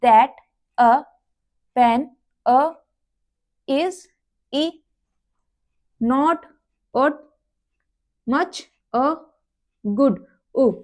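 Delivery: "that, a", "pen, a", "is, e", "not, or", "much, a", "good, u": each word then its vowel sound alone; vowel sounds isolated. Shown as a demonstration. Teacher to students, word then its vowel sound. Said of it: "ये sound हमारी light रहेगी".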